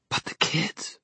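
soft breathy whisper. A narrator's reading. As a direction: whisper it, barely voiced. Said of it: "she whispered".

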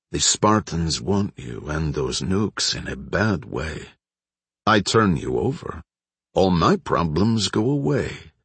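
slow, lightly voiced tough boss; menacing proprietor. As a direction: spell out the threat slowly, in light character. Narrator voices menacing proprietor Baklanov.

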